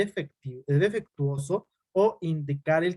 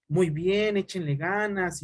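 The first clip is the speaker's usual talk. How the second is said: smiling praise; 2 semitones higher, slower than usual. Shown as a demonstration. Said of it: "la cara así toda sonriente".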